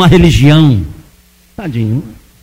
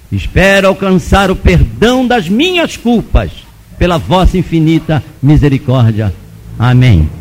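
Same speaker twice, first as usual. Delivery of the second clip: oração recitada; 3 dB louder than usual. Retold or imitated. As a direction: recite the prayer firmly, stretching phrases. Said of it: "aí fui orar o credo". (reza decorada, pausada e enfática)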